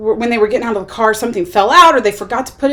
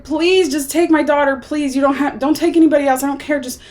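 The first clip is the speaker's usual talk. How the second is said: higher-pitched, mildly frantic imitation of begging; retold desperate pleading; 5 semitones higher than usual. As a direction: plead like a mother, without really screaming. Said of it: "she's crying and screaming".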